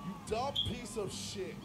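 super villain. Real, not acted. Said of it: "You sound like a super villain".

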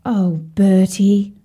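slow sighing "Oh, Bertie". Acted. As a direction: let it out on a sigh, slow. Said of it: "sighed Sadie".

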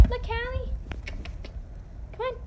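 high pet-directed voice; coaxing a pet. Real, not acted. Owner shows Callie the trick, high coaxing voice. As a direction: get the animal's attention up high.

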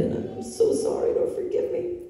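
high, breathy, tearful plea; pleading for forgiveness through tears; tearful repentance. Retold or imitated. Repenting to the Lord, high and tearful.

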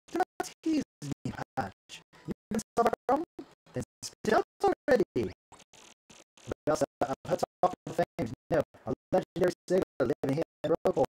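lightly theatrical, lively swings of pitch; pompous ship owner. Acted. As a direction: hold forth grandly to a subordinate. Same game figure continues.

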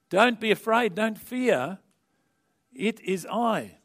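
calling out. Retold or imitated. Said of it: "And Jesus calls out".

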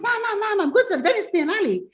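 very high-pitched, giddy retelling; excited announcement. Retold or imitated. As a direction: replay bursting with big news for mom. Retold breaking big news to mother.

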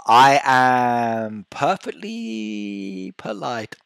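slow, prim mock-innocent claim; slow put-on innocence. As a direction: play the angel, drawn out slowly.

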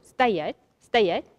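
firm spoken command to a horse. Real, not acted. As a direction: call the halt firmly. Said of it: "дам ему команду".

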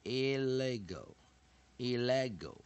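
"illegal" said slowly in the French way; French-style illegal. Shown as a demonstration. Teacher showing the French origin of "illegal", slow. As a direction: give "illegal" its French flavour. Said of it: "来自法文的illegal".

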